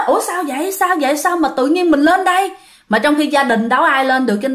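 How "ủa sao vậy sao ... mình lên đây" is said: high, bewildered waking question; a mild retold fright, pitched up; boy waking on the roof, high and startled; startled confusion. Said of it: "nó hoảng hồn".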